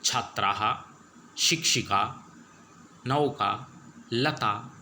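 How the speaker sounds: each Sanskrit word said clearly on its own, with a pause after it; careful word-by-word pronunciation. Shown as a demonstration. Teacher reads the vocabulary aloud to the pupils, crisp careful pronunciation. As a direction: model every word cleanly, one at a time, for the class to copy. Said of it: "आपको इन शब्दों के उच्चारण करना है".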